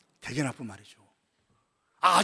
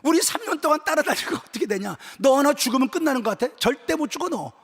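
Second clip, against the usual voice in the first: acted indignant outburst, voice somewhat raised; mock-angry protest; throwing a temper; 4 semitones higher, 4 dB louder than usual. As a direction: scold and forbid, ending on a sharp refusal. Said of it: "그거에 성질 부리는 거예요".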